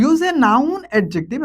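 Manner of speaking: very slow, spelled-out reading of the instruction; slow dictation. Shown as a demonstration. Teacher reading the exercise instruction to students, very slow. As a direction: read the task aloud word by word. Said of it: "teacher reads the instruction".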